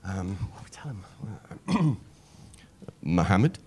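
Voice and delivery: panicked aside. Retold or imitated. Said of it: "isis is like".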